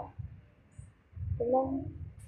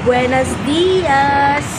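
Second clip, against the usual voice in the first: big drawn-out shout of hello; shouted greeting; 10 dB louder, much slower than usual. Real, not acted. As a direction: call it out long and loud. Loud vlog greeting.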